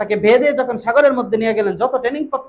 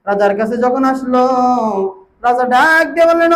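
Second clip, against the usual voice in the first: melodic preaching. Real, not acted. Melodic sermon storytelling.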